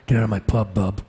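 lightly voiced tough comic-book hero; a hint of surly mutant brawler; Wolverine. Actor turning a soap line into Wolverine, tough voice. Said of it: "Now I sound like Wolverine".

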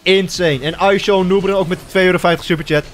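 excited shout-out. Real, not acted. Streamer announces Joost's big superchat, excited shout-out. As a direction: hype the donors with energy.

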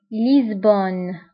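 لشبونة as French liz-bonne, drawn out; French name for لشبونة with z and no final vowel; French pronunciation. Shown as a demonstration. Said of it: "بالفرنسية أيضًا".

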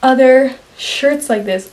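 talking around a retainer; slightly lisped retainer speech; wearing a retainer. Real, not acted. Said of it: "I have my retainer in".

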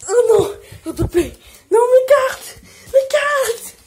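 laughing, high pleading. Real, not acted. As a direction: beg with a laugh. Begging for cards back.

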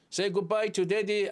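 very slow, clear; slow model reading. Shown as a demonstration. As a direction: spell out each word slowly. Teacher models dialogue line slowly.

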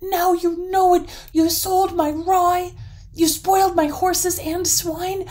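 high, sustained raving rage; enraged troll yelling every phrase; furious yell. A narrator's reading. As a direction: rant at full volume, bursting with rage. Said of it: "yelled the troll furiously".

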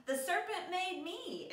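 high, sudden protest; exclaiming. Acted. Eve blaming the serpent to God, exclaiming high. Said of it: "exclaimed Eve".

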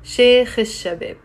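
emphatic slow liaison, "al" becoming "ish"; silent L. Shown as a demonstration. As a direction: stretch the linked sh in "Sheikh al-Shabab", no L. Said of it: "we don't pronounce it".

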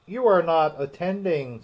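a cross mouse snapping at Alice; severe. A narrator's reading. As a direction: scold a daydreaming listener. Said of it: "said the mouse to Alice severely".

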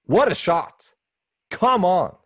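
loud, high burst of admiration; real hyped-up outburst; pumped up. Real, not acted. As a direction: exclaim like a thrilled fan. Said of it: "That gets me so pumped".

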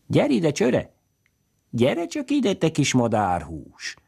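put-on high, coaxing call to a little girl, slowing at the end; coaxing man calling. A narrator's reading. Man on a cart coaxing the naked girl, a high teasing call. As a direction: lure the shy child over playfully. Kadarcs István calls to the girl.

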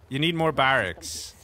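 slow, deliberate advice. Shown as a demonstration. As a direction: spell it out slowly. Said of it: "repeated advice".

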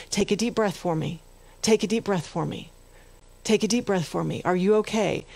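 soft, calm doctor coaxing a patient; gentle doctor. Retold or imitated. Doctor calming shocked Captain Phillips.

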